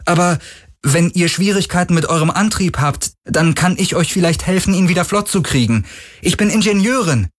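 very high female character voice; high-pitched woman offering help; thin woman calling. A narrator's reading. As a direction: pipe up with a tentative offer. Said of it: "rief eine dünne Frau".

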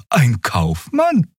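high, very slow question; Xea guessing. A narrator's reading. Character guessing who the customer is, slow and high. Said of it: "fragte Xea".

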